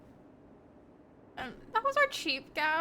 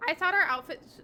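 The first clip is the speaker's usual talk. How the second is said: voice crack; 3 semitones higher than usual. Real, not acted. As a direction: voice cracking mid-phrase. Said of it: "the voice crack".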